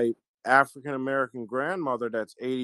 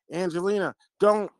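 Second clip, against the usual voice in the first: sharp call-out; 6 semitones higher than usual. Retold or imitated. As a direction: snap her name, then bark the don't. Father scolding daughter touching handle.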